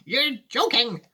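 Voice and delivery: put-on high, slow old lady's disbelief; Grandma Josephine. Grandma challenging Wonka's plan, high and slow. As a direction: plead disbelievingly, drawing it out. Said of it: "said Grandma Josephine".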